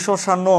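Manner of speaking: শ্মশান as shoshano, o sounded; added final vowel. Shown as a demonstration. Teacher supposing we said o, শ্মশান ending in o. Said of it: "ও বলতাম".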